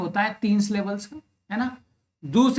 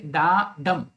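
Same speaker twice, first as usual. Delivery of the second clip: light डा, then stressed डम; iambic stress on डम; 4 semitones lower, much slower than usual. Shown as a demonstration. Teacher showing students an iamb, stress on डम. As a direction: lean on the second beat, डम, after an unstressed डा. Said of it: "दूसरा syllable stressed होगा".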